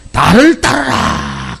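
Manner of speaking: slow commanding call to follow; general's command. Retold or imitated. Brave general calling his troops, slow command. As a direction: lead from the front, calling slowly. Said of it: "맨 앞에 서서 뭐라 그래요?".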